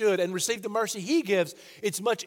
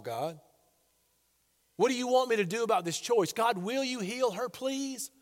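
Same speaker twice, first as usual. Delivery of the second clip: put-on humble childlike plea; 3 semitones lower than usual. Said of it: "coming to him as a child saying".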